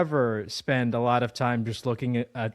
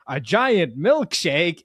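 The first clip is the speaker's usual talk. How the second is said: Ludwig's line; 5 semitones higher, 5 dB louder, much slower than usual. Retold or imitated. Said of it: "and he's like".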